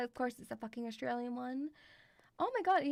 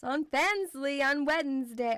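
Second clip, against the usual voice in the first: slow and loud in bursts; 6 dB louder than usual. Real, not acted. Streamer plugging the Wednesday stream, said loud. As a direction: announce it slowly, punching it out. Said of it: "I have said that loud".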